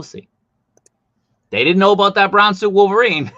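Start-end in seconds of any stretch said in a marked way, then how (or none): 1.5-3.3 loud and high, worked up; bursting with collector excitement; excited. Real, not acted. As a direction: blurt it out, all fired up. Excited rant about unexpected figure.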